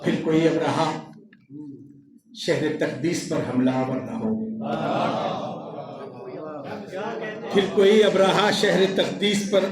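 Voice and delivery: measured mushaira declamation; poetry recitation. Acted. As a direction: recite the couplet with deliberate lifted phrases. Poet recites his ghazal.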